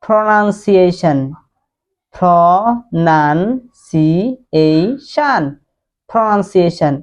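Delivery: প্রনাউন্সিয়েশন with a breathy ph start; drilled word, slow and careful. Shown as a demonstration. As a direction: say প্রনাউন্সিয়েশন slowly, aspirating the p. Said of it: "তাহলে আপনি বলেন".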